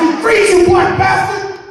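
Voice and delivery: high, shouted freeze order; cop screaming. Retold or imitated. Officer jumping out of the car, furious shout. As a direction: yell it like an overzealous cop. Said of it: "he says".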